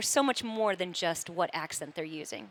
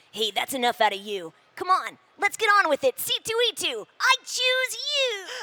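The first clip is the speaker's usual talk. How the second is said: very high, very loud, swooping cartoon character voice; 13 semitones higher, 8 dB louder than usual. Asked for one last little voice to sign the show off: cartoon character voice. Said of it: "any last little voices that we can hear".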